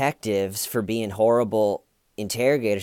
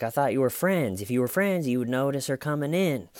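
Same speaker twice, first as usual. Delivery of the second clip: lightly voiced detective, pitched up; higher-pitched mock reproach; mock guilt-trip; 5 semitones higher than usual. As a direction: imitate a detective feigning hurt friendship. Imitates detective guilt-tripping suspect.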